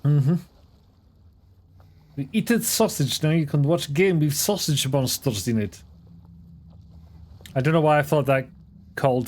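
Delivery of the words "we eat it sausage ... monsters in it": lightly put-on Russian accent, playful; half a Russian accent. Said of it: "half a Russian accent".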